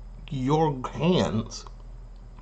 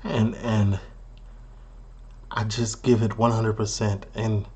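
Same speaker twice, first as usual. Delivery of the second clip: lower, quieter parody of an earnest cook; mock proud cook; 4 semitones lower, 4 dB quieter than usual. Cook thanking the chef for noticing, mock proud. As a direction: lightly imitate a cook humbly thanking the chef. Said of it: "He was beyond proud".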